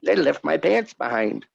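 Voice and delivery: lightly put-on redneck twang; playing a hick telling his abduction story; hillbilly voice. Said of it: "I went from hillbilly".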